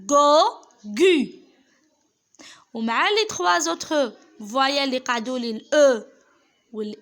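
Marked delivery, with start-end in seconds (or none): 0.1-1.3 قا قو called out much louder; loud model syllables. Shown as a demonstration. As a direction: shout the syllables for the class to repeat. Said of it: "ننطق".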